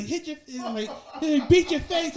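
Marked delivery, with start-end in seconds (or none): 0.0-0.4 high-pitched, softer mock yell; a held-back imitation of a barked order; imitating drill sergeant. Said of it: "They're like". 1.2-2.2 high-pitched mock yell; imitating drill sergeant. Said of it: "They're like".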